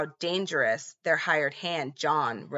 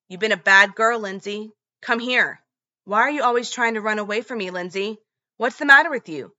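menacing scolding; 4 semitones higher, 5 dB louder than usual. Retold or imitated.

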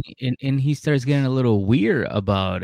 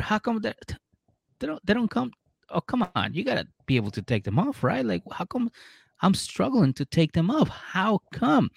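high puzzled whining, tugging at stuck pants; mock baffled whine; 10 semitones higher, 5 dB quieter than usual. Lindsay grappling with his pants, high comic whine. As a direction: she pulls at pants that won't come off, whining in pitched-up bafflement.

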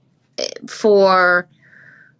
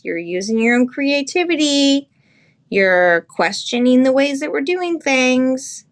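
higher, mock-alarmed scolding; mock alarmed elders; 4 semitones higher than usual. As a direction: play the worried elders, hammed up. Voicing society's alarm.

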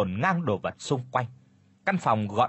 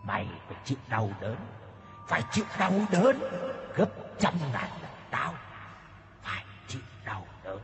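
eerie, distorted demon voice, softer and menacing; 7 dB quieter, faster than usual. A narrator's reading. Demon threatens the fainted girl, eerie menacing voice. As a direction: threaten her like a ghost from the dark. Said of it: "rồi nói".

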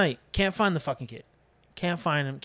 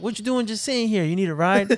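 lightly voiced women, pitched up; higher imitation of women offering a lift; middle-aged women; 4 semitones higher, 3 dB louder than usual. Two women to a man waiting outside, lightly voiced. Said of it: "two middle-aged black women".

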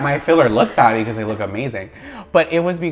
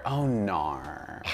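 Australian accent; 5 semitones lower, 9 dB quieter than usual. Shown as a demonstration. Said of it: "It's my favorite word".

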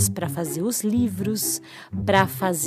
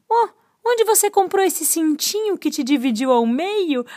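zero's voice; 6 semitones higher than usual. Acted. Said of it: "O zero olhou pro oito e disse".

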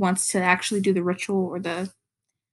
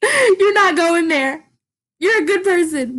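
tearful plea; 7 semitones higher, 6 dB louder than usual. Retold or imitated. Vlogger retelling what she told the character, high tearful plea. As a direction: plead through tears with a friend. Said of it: "'cause I was like".

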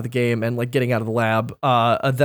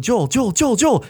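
imitating Ellie calling; 7 semitones higher than usual. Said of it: "Ellie's going".

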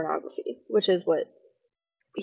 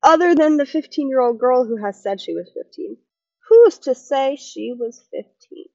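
higher, louder mock of a smug guest; imitating the guest; 5 semitones higher, 6 dB louder than usual. Vlogger mocks the guest's excuse, higher and louder. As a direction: ham up his know-it-all defence. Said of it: "And he goes".

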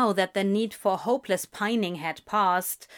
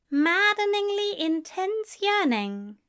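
echoing character voice; 10 semitones higher than usual. A narrator's reading. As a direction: ponder the phrase in a high voice. Aziraphale echoing words in narrated scene.

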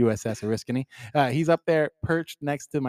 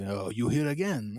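mock Asian accent; 6 dB quieter than usual. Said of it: "the Harambe sounds kinda Asian".

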